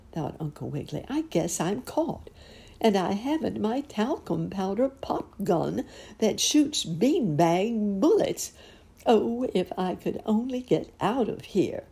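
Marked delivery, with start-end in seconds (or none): 1.1-11.8 high, fretful rabbit; worried lament. A narrator's reading. Uncle Wiggily trapped without his pop gun, high worried lament. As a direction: fret aloud in a higher pitch.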